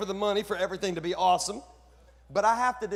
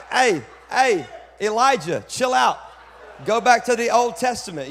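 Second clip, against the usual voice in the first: loud, high call to rein him in; shouted mock rebuke; 5 semitones higher, 12 dB louder than usual. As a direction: shout the preacher down, jokingly. Mock heckling of the preacher.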